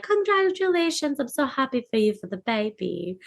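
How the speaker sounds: badly faked foreign accent, high start; hammed-up, unconvincing foreign accent; Marina. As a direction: attempt a vague European accent, badly. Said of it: "That was my best Marina accent".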